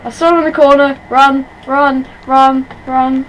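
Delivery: loud urgent fleeing cries; being chased. Real, not acted. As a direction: shout while running for your life. Fleeing the monster in game.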